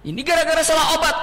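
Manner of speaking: quick, high mock complaint; demonstrated lament. Shown as a demonstration. Mourner blaming the wrong medicine, mock lament. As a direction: blurt the blame as a mock wail.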